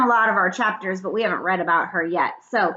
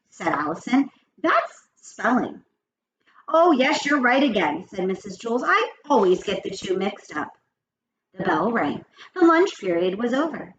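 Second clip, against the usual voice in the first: lively, expressive read-aloud with character quotes; read-aloud storytelling; 2 semitones higher than usual. A narrator's reading. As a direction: read the chapter to children, lifting the dialogue. Reads story aloud to children.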